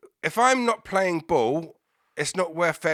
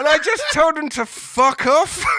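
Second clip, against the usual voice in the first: higher and louder, laughter through the words; laughing while talking; 12 semitones higher, 5 dB louder than usual. Real, not acted. Telling a friend how he beat scammers, laughing. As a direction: laugh the punchline out, slowly.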